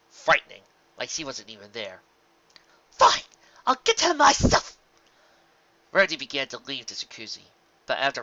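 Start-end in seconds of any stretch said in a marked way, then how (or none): 2.9-4.8 high, loud, slow and huffy; huffy shout. A narrator's reading. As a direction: snap it, then storm off. Rarity storming off.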